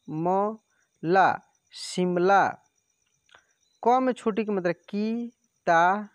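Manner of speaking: drawn-out syllables, very slow, then the word; slow spelling drill. Shown as a demonstration. Teacher slowly spelling words so students can follow. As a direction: stretch each syllable like ला, शिमला before joining. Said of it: "एक एक मात्रा को हीजे कर करके पढ़िए".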